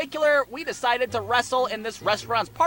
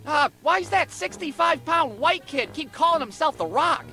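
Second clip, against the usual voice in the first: raised, baffled onlooker voice; mock bewilderment, pitched up; puzzled bystander; 4 semitones higher than usual. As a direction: lightly voice a confused passer-by. Puzzled passer-by voiced in story.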